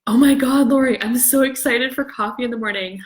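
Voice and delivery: gushing to Lori about tomorrow's coffee; excited. Retold or imitated. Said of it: "and I would say".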